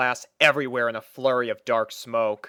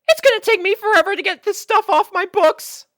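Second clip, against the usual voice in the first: high, loud exasperated complaint; dismayed Twilight; 10 dB louder than usual. Acted. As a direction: groan over the cleanup.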